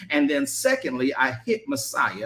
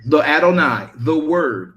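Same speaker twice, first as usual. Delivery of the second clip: loud repeat; 7 dB louder than usual. Shown as a demonstration. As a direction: repeat the answer loudly. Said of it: "Somebody tell me".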